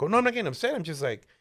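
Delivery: high-pitched, lightly acted reassurance; placating denial. Placating a date who asks if upset.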